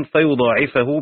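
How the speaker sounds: فيضاعفه with a single ض and the ending fa-yuḍāʿifahu; Asim's reading. Shown as a demonstration. Teacher reciting Asim's reading of فيضاعفه. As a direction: say فيضاعفه as Asim reads it, no doubling, ending in fahu. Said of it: "بنصب الفاء".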